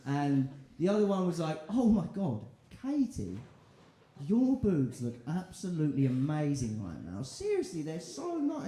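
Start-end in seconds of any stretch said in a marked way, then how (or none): 1.7-8.7 lightly voiced friend fawning over Katie; gushing girl.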